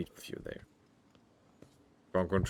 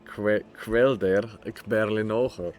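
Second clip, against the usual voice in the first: fake German accent. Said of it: "the funny fake German language".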